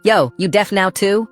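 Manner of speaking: high, jeering call-out; taunting call. A narrator's reading. Bully calls after the boy walking past, taunting call. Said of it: "Evan calls after me".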